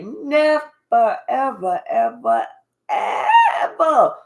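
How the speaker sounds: drawn-out, rising to a shouted ever; building never ever to a cry; emphatic never ever. Real, not acted. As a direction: hammer each ever home.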